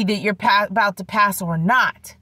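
swollen throat, low and soft; swollen tonsils voice. Real, not acted. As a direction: speak with a sore, swollen throat. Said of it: "My throat is swollen".

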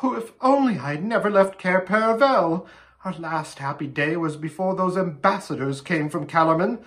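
high tearful lament breaking into wails; distraught, weepy character voice; acted sobbing. A narrator's reading. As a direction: wail with regret, dissolving into sobs. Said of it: "buried her face in her hands and sobbed".

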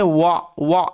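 ওয়া sounded out as "wa". Shown as a demonstration. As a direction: model the vowel in ওয়া, "wa". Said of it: "এই সাউন্ডটা হয়".

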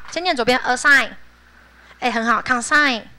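"assign" "consign" with light s; soft s in assign. Shown as a demonstration. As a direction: say the s unvoiced. (轻 s 发音)

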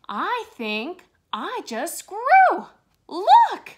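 high, loud thrilled cry; amazed and delighted at growing; shrieking with glee at his own growth; excited. Acted.

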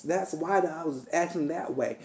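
unvoiced whisper of a confession. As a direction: breathe the admission out. Imagined admission, said aside.

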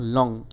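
লং as one single unbroken beat. Shown as a demonstration. Teacher showing students a one-syllable word, said in one go. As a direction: say লং in one stroke. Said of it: "একবারেই pronounce করতে পারি".

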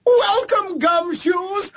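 hammy noir detective announcer; gumshoe voice. Acted. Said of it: "do it in the gumshoe voice".

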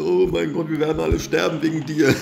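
hammed-up terrified cry of oh my god; panicked rabbi voice. Gamer quoting the rabbi character in mock panic. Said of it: "Der Rabbin hat gesagt".

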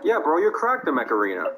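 loud hype. Acted. Skit friend praising loudly.

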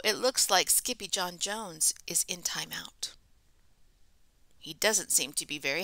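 soft conspiratorial whisper. Pretend. Reader whispering to children about the timeout. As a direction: whisper it like gossip.

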